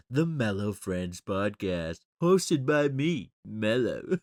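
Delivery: slow, drawn-out goofy voice; silly put-on voice. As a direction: stretch it out like a cheesy showman. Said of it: "I don't know why I'm talking like that".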